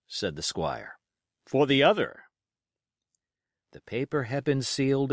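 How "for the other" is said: squire's voice. A narrator's reading.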